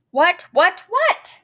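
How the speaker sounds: whispered what, what, then a squeaky high what; panicked little whispers rising to a squeak; fretful whisper. Acted. Moose at a loss, whispering in mild panic. Moose frets over next step.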